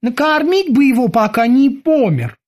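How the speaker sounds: high-pitched tentative boatswain; cautious suggestion. A narrator's reading. Kiki proposes feeding the prisoner, cautious suggestion. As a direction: suggest it carefully, high, slowing at the end. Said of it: "осторожно предложил Кики".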